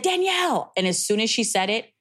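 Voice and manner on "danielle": name said much higher, grief in it; stepmom breaking the news. Retold or imitated. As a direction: call her name high, like bad news.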